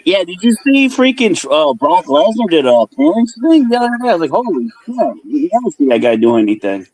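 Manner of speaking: muffled like through a wall. Real, not acted. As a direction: voice muffled on the line. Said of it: "You sound muffled".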